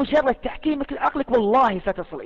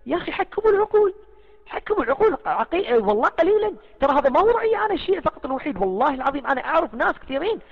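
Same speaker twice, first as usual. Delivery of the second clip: higher, heated exasperation; indignant appeal to fellow Shia, higher; exasperated outburst; 5 semitones higher than usual. Real, not acted. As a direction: plead in disbelief, pitch up. Exasperated rant about mourning rituals.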